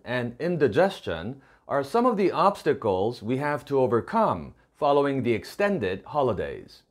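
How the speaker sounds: slow, careful English read-aloud; slow model reading. Shown as a demonstration. Teacher reads the model sentence to students, slow and clear. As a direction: read it slowly so learners can follow.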